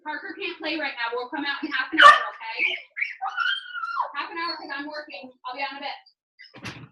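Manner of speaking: shouting from the next room; calling from afar. Real, not acted. Calling out to kids outside.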